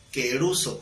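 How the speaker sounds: "Queruso" with the stress on the u. Shown as a demonstration. Teacher showing the class a Greek word, stressed "Queruso". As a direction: lean on the u in "Queruso". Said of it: "con acento en la U".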